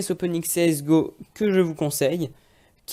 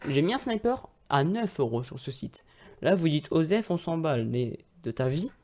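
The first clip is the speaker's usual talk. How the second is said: robot voice. Real, not acted. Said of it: "pourquoi je pars comme un robot".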